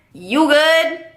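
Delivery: sweet, mock-caring check-in; a light caring lilt on you good; caring girlfriend. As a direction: play the doting girlfriend asking gently. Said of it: "me being the caring, loving, wonderful girlfriend".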